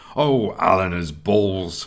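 snarled out in disgust. The armsmaster reacts after Nelson's weapon is knocked across the yard, snarled in disgust. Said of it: "snarled the armsmaster in disgust".

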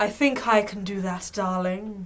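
put-on, affected posh upper-class accent. A player in a game puts the posh accent back on for their character. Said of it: "put the posh accent back on".

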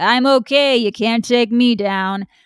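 put-on tough-guy cowboy voice.

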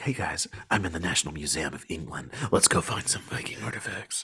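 quiet, soft, hushed indoor voice. Showing how quietly a video would be recorded in a museum: quiet museum voice. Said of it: "I would have to talk like this".

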